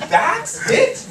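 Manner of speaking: loud, high-pitched disbelief; shrieked mock-indignant question; incredulous outburst. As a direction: explode in comic outrage. Outraged at the anticlimax.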